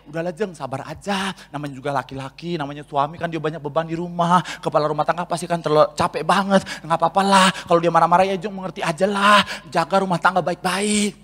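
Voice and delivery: calm good friend. Acted. Good friend comforting the troubled wife, soft and low.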